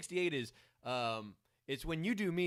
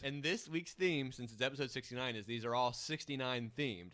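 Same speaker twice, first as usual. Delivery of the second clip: lisp. Real, not acted. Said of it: "He's got a lisp now".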